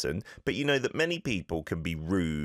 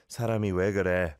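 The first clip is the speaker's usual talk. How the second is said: disappointed; much faster than usual. Shown as a demonstration. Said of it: "you sound again disappointed".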